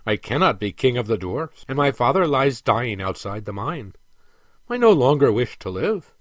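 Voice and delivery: lightly voiced dwarf prince, emphatic; a touch of despair, rising in force to the end; lightly acted despairing prince.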